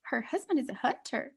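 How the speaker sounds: spiral into mock panic; growing disbelief. Vegan discovers husband hunts.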